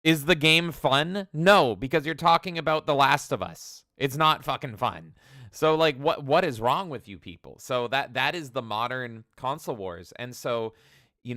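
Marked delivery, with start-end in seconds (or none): 0.0-7.6 exasperated rant. Real, not acted. Streamer ranting at console fanboys, loud and exasperated. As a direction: vent at the fanboys.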